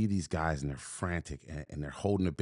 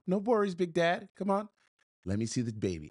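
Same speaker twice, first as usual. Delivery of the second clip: tag reassurance; 12 semitones higher than usual. Retold or imitated. Reassuring the father of hurt baby.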